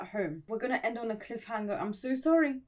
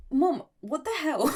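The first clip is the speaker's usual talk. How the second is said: loud, higher outraged yell at mum; outraged cry; 5 semitones higher, 5 dB louder than usual. Acted. Outraged at the mum who gave her away, loud shout.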